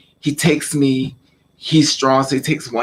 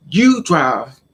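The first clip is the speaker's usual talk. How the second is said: louder, punched command; retold stern order; 5 dB louder than usual. Father orders stepbrother to drive, mock stern command.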